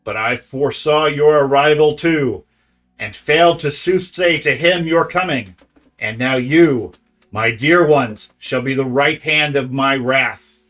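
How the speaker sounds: loud, hissing creature voice. Acted. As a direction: hiss out an ancient blind oracle. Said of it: "to speak out in a hissing voice".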